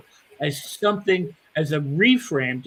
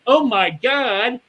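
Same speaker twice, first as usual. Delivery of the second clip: excited; 4 semitones higher, 4 dB louder than usual. Retold or imitated. Imitating a positive person's excited reaction, higher. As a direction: savour it like a gift. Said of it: "rather than going".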